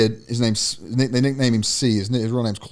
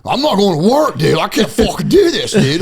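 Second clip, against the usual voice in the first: higher, whiny, hammed-up heartbroken fan; mock distraught fan; 8 semitones higher, 3 dB louder than usual. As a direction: overplay a devastated sports fan for laughs. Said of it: "I'll never be the guy to, like, say".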